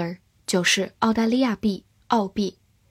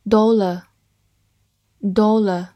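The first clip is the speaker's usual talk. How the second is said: slow drawn-out review; 4 dB louder, much slower than usual. Shown as a demonstration. Vocabulary review repetition.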